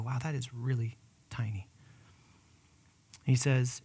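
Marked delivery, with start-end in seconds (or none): 0.0-1.7 whispered wonder at something tiny; awed whisper. Acted. Pastor marvelling at a mustard seed, whispered. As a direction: breathe it in amazement.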